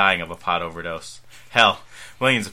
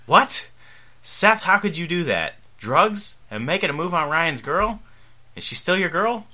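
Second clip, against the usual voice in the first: shocked; 9 semitones higher than usual. Acted. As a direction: gasp it out in disbelief. Father hears shocking news.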